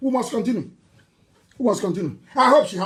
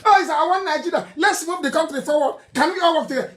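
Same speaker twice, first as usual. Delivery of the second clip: higher, quick mock-sincere slogan; higher mock-earnest unity slogan; mocking sing-song; 5 semitones higher, faster than usual. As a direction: parody their hollow unity talk. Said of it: "That's the game they play".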